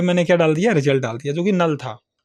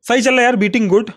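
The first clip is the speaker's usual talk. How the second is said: pleased surprise; 5 semitones higher than usual. Real, not acted. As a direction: celebrate that the code finally works. Code finally runs.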